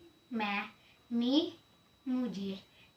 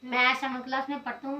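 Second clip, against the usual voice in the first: repeated noticeably louder and faster; student obeys speak louder, pushing voice up; louder on request; 6 dB louder, faster than usual. Real, not acted. शिक्षक के कहने पर छात्र ज़ोर से दोहराता है. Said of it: "speak louder".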